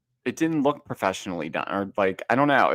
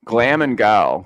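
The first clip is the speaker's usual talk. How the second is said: louder, punchy Lisa Barlow catchphrase; mock Lisa catchphrase; 7 dB louder, slower than usual. Cohost echoing the catchphrase, mock Lisa voice. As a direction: hit it like the housewife's slogan. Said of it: "Now I need glam".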